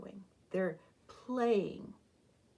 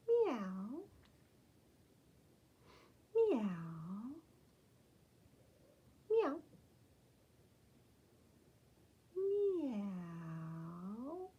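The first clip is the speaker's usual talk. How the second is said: kitty meows; 3 semitones higher, much slower than usual. Shown as a demonstration. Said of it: "what kind of sound does a kitty cat make?".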